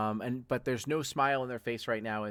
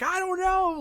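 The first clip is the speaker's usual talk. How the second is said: shrieked very high, loud; a frantic scream of helplessness; panicked scream; 6 dB louder than usual. Acted. Someone answering the panic, screaming helplessly. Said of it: "they're like".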